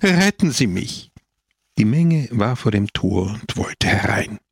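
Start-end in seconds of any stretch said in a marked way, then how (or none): 0.0-1.1 high-pitched sobbing cry for help; schluchzend. A narrator's reading. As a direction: plead through sobs, voice pitched high. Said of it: "schluchzte er". (schluchzend um Hilfe flehend)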